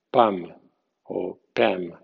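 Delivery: "pam o pam" sin L, am abierta; English "palm". Shown as a demonstration. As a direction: say "pam" two ways, no L. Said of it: "sin L". (di "pam" sin la L)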